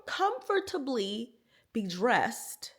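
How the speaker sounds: soft unvoiced whisper. Real, not acted. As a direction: whisper it slowly. Whispered aside in vlog.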